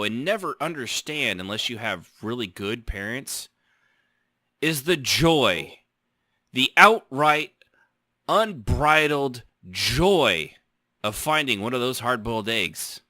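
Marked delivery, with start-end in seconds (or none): 4.6-10.5 slow, swelling, louder on the outright unbridled joy; building emphasis. Acted. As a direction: stretch joy, punch outright. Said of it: "building emphatic delivery".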